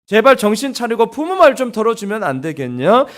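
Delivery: exasperated parent, mock praise that means the opposite; sarcastic parent. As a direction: scold the kid with fake praise. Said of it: "되게 비꼬는 거죠".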